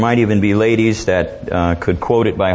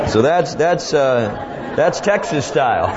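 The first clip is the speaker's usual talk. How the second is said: said through a laugh, higher; 4 semitones higher, slower than usual. Real, not acted. Preacher savors his own punchline, laughing. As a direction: chuckle out the words Texas style.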